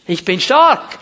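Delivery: loud, forceful declaration; strong, ringing declaration of faith; emphatic proclamation. Acted. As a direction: proclaim it boldly, slamming STARK. Proclaims the weak person's declaration.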